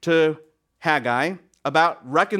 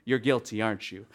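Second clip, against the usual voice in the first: detective's quiet accusation; 9 semitones lower, 8 dB quieter than usual. Retold or imitated. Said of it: "the last question is usually".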